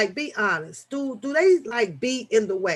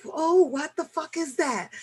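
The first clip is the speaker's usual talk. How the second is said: mock disgust; 7 semitones higher than usual. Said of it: "I'll be like".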